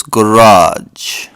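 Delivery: garage said slowly, kuh-RAHZH; drawn-out garage with the stress at the end; own pronunciation. Shown as a demonstration. Giving his own way of saying garage, own pron. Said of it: "And I will call this".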